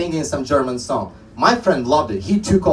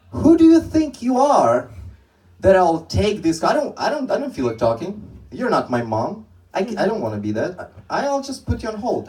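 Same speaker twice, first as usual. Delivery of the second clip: pitched-up mock outrage at the caller; mock indignant rant, voice jumping high; 5 semitones higher than usual. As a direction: huff like a fed-up agent who won't take the call. Agent ranting at incoming call.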